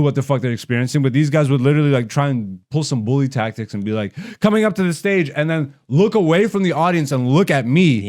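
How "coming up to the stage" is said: goofy nerdy voice. Retold or imitated. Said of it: "literally with a fucking goofy, nerdy white voice".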